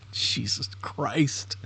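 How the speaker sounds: slow unvoiced whisper; whispered exasperation. Real, not acted. Learner stunned by the AI voice, whispering.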